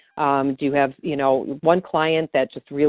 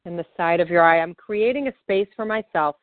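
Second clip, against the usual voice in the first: calm, steady guided affirmation read; guided tapping script. Acted. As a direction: lead the listener gently through each tapping point.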